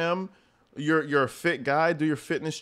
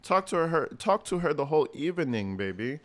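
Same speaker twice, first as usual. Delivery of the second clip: imitating the girlfriend. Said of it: "I love how she says evening".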